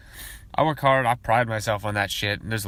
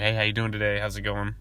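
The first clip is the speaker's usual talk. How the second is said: easy, friendly store greeting; warm salesman. Shown as a demonstration. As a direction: greet them warm but professional. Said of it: "I prefer a warmer kind of salesman".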